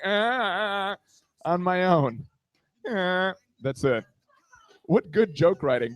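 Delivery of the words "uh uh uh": drawn-out comic moan; mock moaning. Man moaning on his own, mock moans. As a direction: moan on, as if alone. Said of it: "I'm just moaning".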